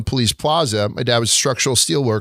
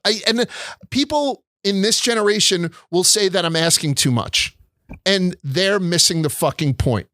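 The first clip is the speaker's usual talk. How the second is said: a worked-up rant, pitched higher; 4 semitones higher than usual. Real, not acted. To the host about dying service, a worked-up rant. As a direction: vent about bad service, building up. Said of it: "that's my little rant for the week".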